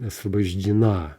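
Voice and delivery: Освобождена with stress only on the final а; final-syllable stress. Shown as a demonstration. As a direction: run through Освобождена to land on its last vowel. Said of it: "It's the final syllable that's stressed".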